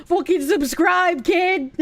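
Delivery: hammed-up Bostonian, drawn out; Bostonian accent. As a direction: order them in a broad Boston accent. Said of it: "a very Bostonian accent".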